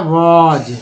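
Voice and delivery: वॉज said with a short o and a final z, like English "was"; model pronunciation. Shown as a demonstration. Teacher models the word for students, clearly. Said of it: "क्या उच्चारण होता है".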